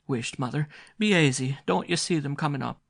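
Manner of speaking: put-on high, loud girl hushing her mother; calm the mother down urgently; girl pointing out the children coming. A narrator's reading.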